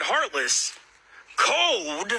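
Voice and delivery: disbelieving one-word questions; incredulous echo. Retold or imitated. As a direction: throw each word back as a question. Echoing mother's accusation in disbelief.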